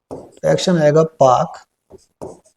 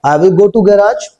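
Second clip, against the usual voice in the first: very slow, word-by-word model sentence; slow spoken drill; 3 semitones higher, much slower than usual. Shown as a demonstration. Teacher spells out the sentence slowly for the class. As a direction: stretch out each word for learners to copy. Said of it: "इनको पहले बोल के देख लेते हैं".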